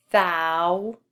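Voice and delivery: "Thousand" split in two, THOU held long, then a pause; broken into syllables. Shown as a demonstration. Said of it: "we break the syllable right there".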